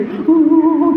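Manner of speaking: high imitated "uh" of longing; drawn-out, high little wail; childlike cooing cry. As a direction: imitate a grown sibling reacting like a small child. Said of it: "kayak anak kecil gitu".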